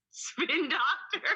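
slow, high, drawn-out nickname; spin doctor. Pretend. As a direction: stretch it out through a laugh. Savours the new nickname.

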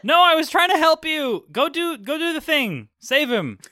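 high-pitched flustered Leo; high, urgent call to get moving; urgent in-character plea. Acted. Leo urging Freya to save him, high-pitched and urgent.

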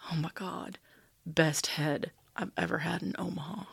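awed, slow whisper; fearful awe. Retold or imitated. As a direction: hush it out in total awe. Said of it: "whispered in awe and very slowly".

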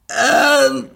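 drawn-out, high hesitant filler; timid. A narrator's reading. Narrator asked if she is sure, timid hesitation. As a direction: hesitate long on a high note, then answer. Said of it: "entgegnete ich zaghaft".

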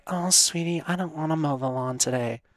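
lightly mocking a sugary girlfriend's whine; mock sweet girlfriend. Man mocking a girlfriend who dodges chores, sugary whine. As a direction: put on a coaxing sweet-talk voice to mock her. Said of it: "for you to be like".

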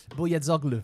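Bojazzoglu repeated with a Greek accent; Greek-accent attempt. Shown as a demonstration. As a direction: copy the Greek accent on the surname. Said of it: "that's with a Greek accent".

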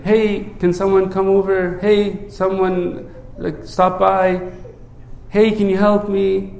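mild, everyday request for help; casual asking. Retold or imitated. Drowning man politely asking passersby, casual. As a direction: ask casually, with no urgency. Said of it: "He doesn't just say, like".

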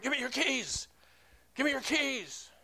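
imitated yelling. Homeless man demanding keys from the pastor, imitated yell. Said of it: "he was yelling, like".

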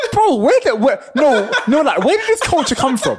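incredulous laughing rant; berserk rage. Real, not acted. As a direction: laugh in disbelief while ranting.

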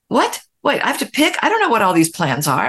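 mock-bewildered, pitched high then settling; taken aback. Woman retelling her reaction to all the plans, taken aback.

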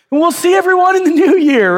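talking over the noise. Retold or imitated. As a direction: push through the announcement over a screaming baby. Pastor talking over screaming baby.

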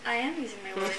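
soft telepathic voice in the head; whispery telepathic voice. Acted. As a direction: speak softly as if in their mind. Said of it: "You hear a telepathic voice".

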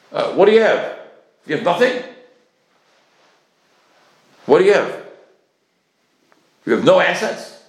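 loud, incredulous questioning; insistent grilling. Acted. Creditor challenging a debtor's claim of no assets, loudly insistent. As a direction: fire separate challenges at the debtor.

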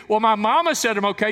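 high, loud mock self-satisfied voice; mock the self-assured sinner; smug excuse. Preacher mocking a churchgoer's excuse, high and smug. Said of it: "mock excuse".

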